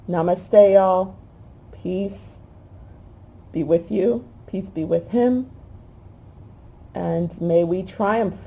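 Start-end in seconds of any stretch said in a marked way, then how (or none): 1.8-8.4 hushed, gentle farewell blessing; soft blessing. Real, not acted. Preacher blessing her viewers at the end, hushed and gentle. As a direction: send them off quietly in peace. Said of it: "soft closing blessing".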